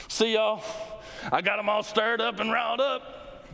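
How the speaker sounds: Jesus breezily leaving the stirred-up priests; breezy goodbye. Pretend. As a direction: toss it off lightly, walking away. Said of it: "it says, "And then he left".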